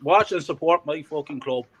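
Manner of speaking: loud angry retelling of shouting down two fans; retold angry outburst. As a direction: bark it at the two lads behind you. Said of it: "I said".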